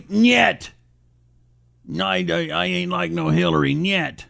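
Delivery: hammed-up Russian accent, Nyet thrown in; bad Putin impression. Host plays Putin answering Trump, mock Russian accent. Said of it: "horrible impression was".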